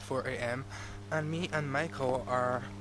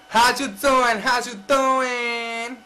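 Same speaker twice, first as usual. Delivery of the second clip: mock flirty greeting; 8 semitones higher, 12 dB louder, slower than usual. Loud put-on greeting.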